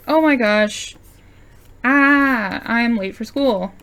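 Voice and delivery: lightly voiced schoolgirl jolting awake; mock panic over being late; startled panic. Voicing startled girl character.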